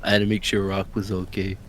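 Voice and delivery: low, soft Italian mobster voice; mob accent. Acted. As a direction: talk like a quiet mob boss. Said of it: "Why do you sound like a mob member now?".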